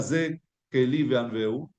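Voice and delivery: "Ze Eli ve'anveu" spoken slowly with weight on "ze"; slow stressed quote. Shown as a demonstration. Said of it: "¿Qué significa".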